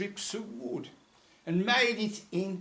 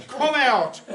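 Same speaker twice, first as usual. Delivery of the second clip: big loud shout, higher and louder; shouted command; 6 semitones higher, 11 dB louder than usual. Acted. Whale shouting down his own throat at the mariner. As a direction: bellow it down your own throat. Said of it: "So he shouted down his own throat".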